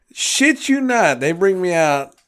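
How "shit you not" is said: slow, high and loud, every word leaned on; emphatic aside. Real, not acted. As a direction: swear it's true, much higher and slower.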